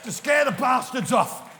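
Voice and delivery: slow, high, bellowed punchline; ranting shout. Pretend. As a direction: hammer each word out at full volume. Comic rant reaching its punchline.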